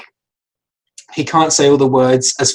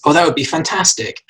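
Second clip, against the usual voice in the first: super enthusiastic; 3 semitones higher than usual. Retold or imitated. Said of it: "super enthusiastic".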